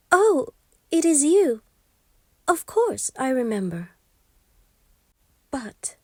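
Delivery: put-on a queen bargaining for her child; queen begging the imp to take riches instead; frightened queen.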